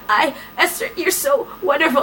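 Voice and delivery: a light mock sob in the words; tearful lover. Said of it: "He's like".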